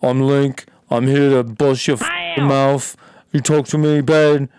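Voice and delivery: a hint of a tough London hardman; lightly voiced tough guy, slow threat; Idris Elba impression. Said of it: "I don't know if he talks like that".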